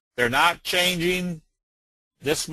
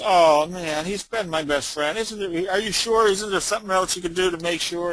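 higher, mock-distraught pleading; pleading pet owner; 4 semitones higher than usual. Upset owner begs vet to check the parakeet, mock pleading.

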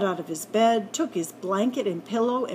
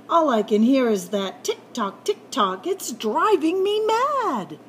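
rising frustration, peaking high on mad; fed up and whining at the noise; exasperated complaint; 3 semitones higher, 4 dB louder than usual. Acted. Rabbit fed up with the ticking clock, exasperated whine.

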